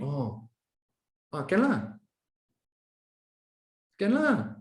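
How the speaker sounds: hesitant, drawn-out can lah that means no; reluctant can lah. Retold or imitated. A colleague hedging a Saturday request, reluctant. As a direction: let the can lah rise and drag unwillingly. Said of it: "The person is communicating, I'm not coming".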